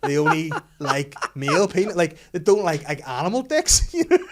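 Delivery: real laughter through the quote; laughing. Real, not acted. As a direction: speak while still giggling. Mum quoted while laughing.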